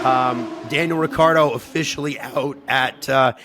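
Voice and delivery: hoarse, rough sick voice; croaky voice from a cold; gruff lunch lady. Real, not acted. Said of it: "I apologize for the way I sound".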